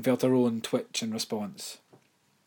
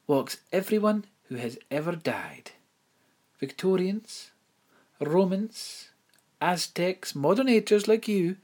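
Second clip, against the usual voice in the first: higher, prim headmistress voice; 10 semitones higher, 5 dB louder than usual. Acted. Headmistress tells Imelda of the dead, higher prim voice. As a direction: speak as the proper headmistress, lifted high.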